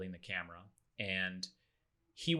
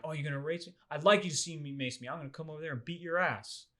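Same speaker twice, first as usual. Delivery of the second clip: mocking threat; 7 semitones higher, faster than usual. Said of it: "another threat".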